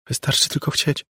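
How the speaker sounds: put-on high, strange child voice; eerie little girl. A narrator's reading. Floating girl explains herself to Margo, high eerie voice. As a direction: answer as an uncanny small girl.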